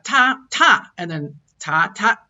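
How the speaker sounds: Shanghainese tones on ta, ta; ta said with contrasting tones; tone demo. Shown as a demonstration. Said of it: "you put an accent on the first letter".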